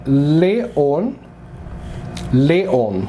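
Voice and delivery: Leon said slowly as le-ON, with a rise; Greek pronunciation. Shown as a demonstration. Teacher reads the Greek name for Leo. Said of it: "A gente fala".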